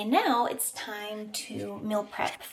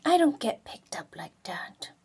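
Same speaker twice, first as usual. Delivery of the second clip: voicing the dog; 3 semitones higher, 3 dB louder than usual. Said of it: "Are you saying".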